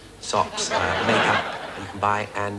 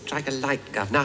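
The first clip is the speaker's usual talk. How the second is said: overdone Cockney; 4 semitones higher than usual. Pretend. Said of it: "don't overdo it".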